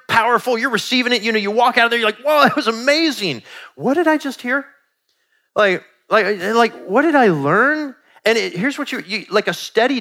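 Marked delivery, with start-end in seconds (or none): 2.2-8.0 awed listener. Retold or imitated. Listener leaving a powerful sermon.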